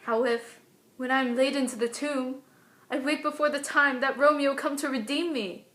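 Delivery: worried, scared stage soliloquy; understated dread, thinking through each fear with pauses; Juliet. Acted. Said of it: "scared kind of mixture".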